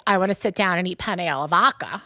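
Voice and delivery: Long Island accent, fast and casual. Shown as a demonstration. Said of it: "That's my Long Island accent".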